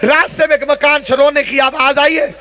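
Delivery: fervent storytelling, phrase by phrase; majlis tragedy narration. Real, not acted. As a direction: tell the sacred tragedy to stir weeping. Preacher tells the tragedy.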